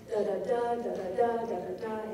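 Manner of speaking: "da da DA", last beat stressed; anapest rhythm. Shown as a demonstration. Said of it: "you have these anapests".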